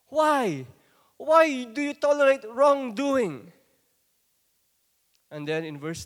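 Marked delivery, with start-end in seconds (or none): 0.1-3.5 loud, anguished cry to God; forceful plea. Acted. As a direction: cry out loud, demanding an answer. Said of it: "Maybe he's saying this in a more forceful way like this".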